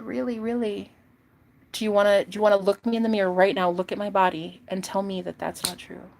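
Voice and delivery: quick bold dare; sassy challenge. Retold or imitated. Her challenging boyfriend to deny the truth, sassy. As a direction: push him to admit it.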